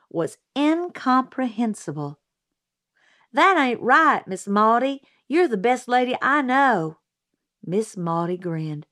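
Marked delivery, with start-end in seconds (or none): 3.3-7.0 put-on higher, louder child's protest; young tomboy insisting earnestly; girl Scout protesting. A narrator's reading. Scout protesting to Miss Maudie.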